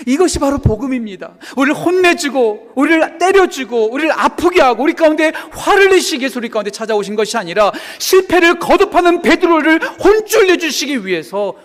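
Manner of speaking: high, loud, building pulpit cry; full-force preaching. Real, not acted. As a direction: proclaim it with mounting passion. (목청 높여 외치는 설교)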